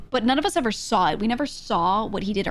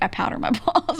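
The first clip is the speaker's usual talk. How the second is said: confiding, broken by laughter; 4 semitones higher than usual. Retold or imitated. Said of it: "again, he's leaning in, like, close".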